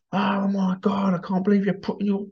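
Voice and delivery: high, whispered mock horror; imitating a horrified clean freak; disgusted whisper. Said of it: "his Sal's going".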